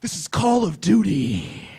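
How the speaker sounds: hammed-up indignant player; mock angry gamer. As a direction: imitate a gamer who is taking it too seriously. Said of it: "getting really mad at me".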